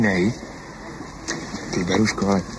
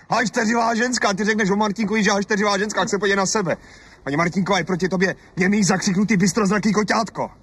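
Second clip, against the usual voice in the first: high, scornful yelling; husband jeering at his quarrelsome wife; mocking shout; 8 semitones higher than usual. Husband mocks wife heatedly.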